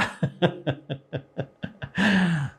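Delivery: light laugh after a shout; a quick amused laugh. Real, not acted.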